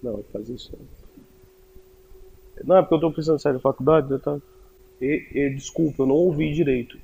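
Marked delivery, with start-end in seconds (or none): 2.7-4.4 rushed nervous repeat, words tumbling out fast; nervous fast retelling to father; hurried repeat. Retold or imitated. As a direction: blurt it again quickly to the father.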